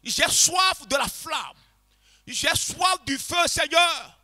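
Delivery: slow, fervent, building cry to the Lord; prière fervente, de plus en plus forte; model prayer. Shown as a demonstration. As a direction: show them how to pour out their thirst in prayer. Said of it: "exprime-le au Seigneur".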